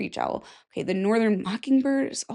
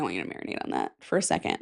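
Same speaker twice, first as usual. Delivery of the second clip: mock deep voice; 7 dB quieter, much faster than usual. Urging viewers to think.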